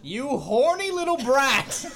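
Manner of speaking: mock scolding. Scolding Anton in character.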